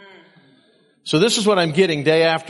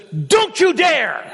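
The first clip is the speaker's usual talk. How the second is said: high, loud, slow mock warning; imitating Sam; 5 dB louder, much slower than usual. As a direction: play the stern coworker stretching each word. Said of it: "and he says".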